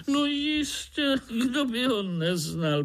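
mock-amazed little frog; surprised frog. A narrator's reading. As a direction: squeak it like an astonished frog. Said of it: "podivila se rosnička".

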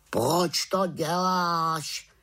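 slow, high raven question; raven asking. A narrator's reading. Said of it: "zeptal se Abraxas". (pomalá vysoká otázka havrana)

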